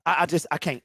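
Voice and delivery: exhausted, giving up; defeated. Real, not acted. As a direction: trail off, drained after yelling. Gives up after the rant.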